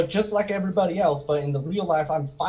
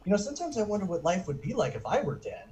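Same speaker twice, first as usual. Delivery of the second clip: mock-solemn child musing, softer; dead serious; 3 semitones higher, 5 dB quieter, faster than usual. Child confiding in dad at the checkout, dead serious. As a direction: deliver it earnestly, a little quick. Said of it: "in total, total seriousness".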